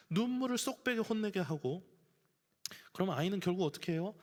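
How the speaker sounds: usual speaking voice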